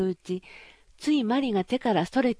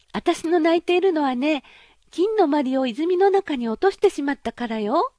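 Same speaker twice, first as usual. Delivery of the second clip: put-on high, loud girlish princess voice, half scornful; a pampered princess, pitched up and bright with surprise; spoiled young princess; 7 semitones higher, 5 dB louder than usual. Princess voiced in fairy tale. (高く大きな声のわがままなお姫様)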